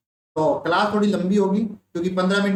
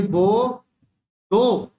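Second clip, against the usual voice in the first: put-on lisping child; much slower than usual. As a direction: call it out like a child demanding. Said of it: "तोतली आवाज में". (तोतली आवाज़ में ज़ोर से माँगना)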